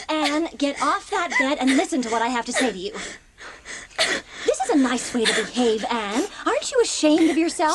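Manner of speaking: firm, reproachful guardian; stern scolding. Acted. Marilla ordering Anne off the bed, stern. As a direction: scold her sharply to get up.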